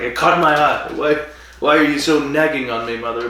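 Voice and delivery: retold bratty retort to mother; rude to his mother. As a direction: act out a son tired of nagging. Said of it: "rude as you can be to your mother".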